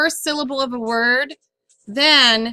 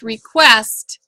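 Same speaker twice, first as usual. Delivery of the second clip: request with the weight on quest; stress on second syllable; 5 dB louder than usual. Shown as a demonstration.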